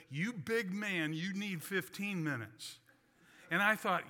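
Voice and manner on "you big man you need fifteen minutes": slow, halting broken English; a hint of a broken-English accent, slowly. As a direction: lightly imitate a masseur's broken English. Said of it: "the guy said in broken English".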